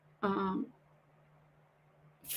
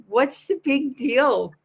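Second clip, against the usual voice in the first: higher, drawn-out mock yell; imitating a slow, raised-pitch telling-off; retold mild yell; 6 semitones higher, 3 dB louder, slower than usual. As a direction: stretch it out as a half-hearted holler. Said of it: "I did yell".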